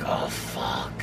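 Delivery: very low, soft, sinking mutter; quiet retold dismay; hushed dread. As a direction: drop it way down under your breath. Retold dread, asked out of car.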